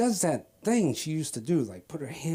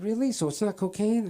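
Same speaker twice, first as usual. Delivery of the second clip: lightly voiced wife, pitched up; higher, mildly hopeful imitation of a wife; questioning wife; 6 semitones higher than usual. Wife checking husband's excuse, lightly voiced higher. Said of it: "she said".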